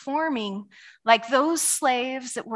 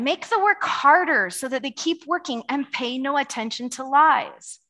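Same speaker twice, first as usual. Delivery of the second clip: Pharaoh voice. Retold or imitated. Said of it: "hear Pharaoh's voice".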